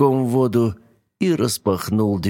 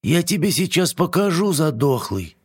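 higher squeaky indignant screech; squeaky little dragon; 8 semitones higher than usual. A narrator's reading. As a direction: squeal it like an offended small dragon. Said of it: "тоненьким голосом заверещал".

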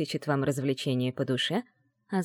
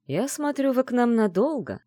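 higher, lightly drawn-out remark; 6 semitones higher than usual. Acted. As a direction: draw it out with interest. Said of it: "протянул он".

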